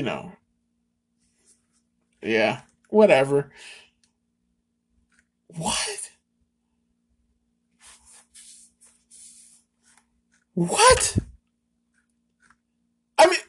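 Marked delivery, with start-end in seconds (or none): 5.6-13.4 much higher, startled what; stunned what. Real, not acted. Vlogger stunned by the quarterback's words, squeaking what. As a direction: blurt it out in disbelief.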